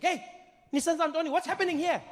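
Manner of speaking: a mom bursting in; mom demanding. Retold or imitated. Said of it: "She'd be like".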